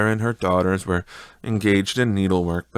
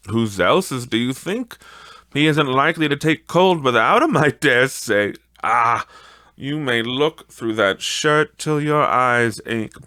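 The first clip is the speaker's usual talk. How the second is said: mildly higher, boastful woman; lightly voiced charwoman; 4 semitones higher than usual. The charwoman boasting to old Joe about the shirt.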